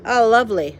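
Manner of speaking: loud, mocking cook; sarcastic Cook. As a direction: sneer it like a grumpy cook. Cook's voice in the story.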